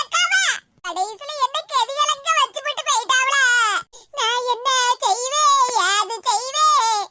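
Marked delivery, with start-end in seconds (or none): 4.2-7.0 tearful wail, drawn out slowly; crying lament. Acted. Woman lamenting to herself about the neighbour's insult, crying. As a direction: sob the words out in despair. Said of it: "ஏன் இப்படி அழுதுகிட்டே வர?".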